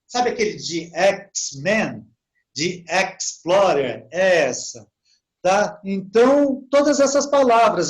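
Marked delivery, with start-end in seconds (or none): 0.9-4.1 "X-Men" slowly with a stressed EKS; slow "Explorer" opening on a clear "eks". Shown as a demonstration. Teacher giving familiar examples of the English X, slow "X-Men", "Explorer". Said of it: "eles pronunciam como X".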